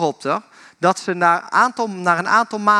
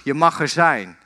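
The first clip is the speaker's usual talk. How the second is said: returning echo. Retold or imitated. The boy hears father's words return, light echo. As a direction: answer the call as its echo, pitched down. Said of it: "En hij hoort terug".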